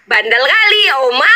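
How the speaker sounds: playful scolding breaking into a laugh; laughing mock scold. Fan quoting Aisar's scolding of Oma, laughing mock scold. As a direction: tease through a giggle.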